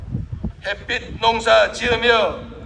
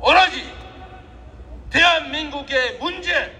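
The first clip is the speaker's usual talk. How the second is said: rousing shout; 5 semitones higher than usual. Real, not acted. Rally peak, raising the voice.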